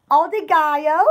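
"Obrigado" with the tone lifted on its end. Shown as a demonstration. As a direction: raise the last syllable of "Obrigado". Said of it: "put the tone at the end of the word".

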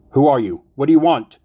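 high, loud panicked shriek; terrified scream. Acted. Tied-down victim screaming at her captor, panicked shriek. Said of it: "she screamed".

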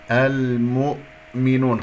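المؤمنون with the damma dragged into the hamza; slow, faulty المؤمنون; wrong pronunciation demo. Shown as a demonstration. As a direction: drag the mu of المؤمنون into the glottal stop. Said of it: "خطأ".

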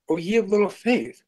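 a gentle rebuke, lightly acted; Jesus quoted. Jesus to the panicked disciples, lightly voiced. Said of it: "And he said to them".

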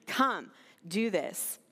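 slow, measured command; a direct call with space after the first word; clear summons. Acted. Jesus calling us to his table, clear and direct. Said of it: "that's the tone that Jesus is saying".

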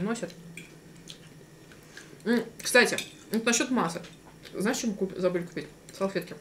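words muffled by food; talking between bites; mouth full, chewing. Real, not acted. Seen 2: bit bread just before; cheeks bulge, jaw chewing while talking.

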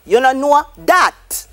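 "that" said "dat", with a D at the start. Shown as a demonstration. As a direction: open "that" with a D. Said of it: "That becomes that".

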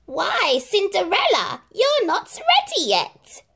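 very high, mock surprise; sly stepmother. A narrator's reading. Stepmother mocks Cinderella, high sly voice. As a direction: feign concern sweetly.

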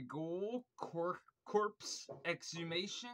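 mumbling with a mouthful; words slurred round the mouth; marbles in mouth. Real, not acted. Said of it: "feel like I have marbles in my mouth".

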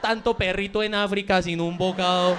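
slow, guilt-tripping mother; lamenting mom. Acted. Owner guilt-tripping the dog like a mom, slow lament. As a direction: lament it slowly like a reproachful mom. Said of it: "ahora digo frases de mamá".

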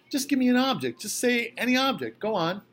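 put-on high, eager and pushy old man. A narrator's reading. Old man urging guests to play his game, high and eager. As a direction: urge them on like an excited kid.

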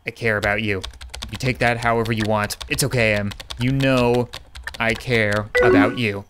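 low, tender reassurance; deeply caring. Acted. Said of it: "kinda wanna just go in deep".

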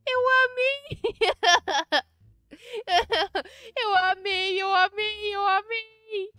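loud, high squeal of delight; gleeful cry after the ride. Real, not acted. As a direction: shout how much you loved it. Thrilled after the slide ride.

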